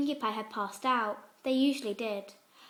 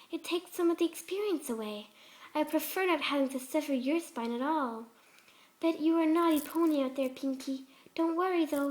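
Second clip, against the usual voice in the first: a hint of a gentle, higher pony voice, sweetly unsettling; lightly voiced sweet Fluttershy; 4 semitones higher than usual.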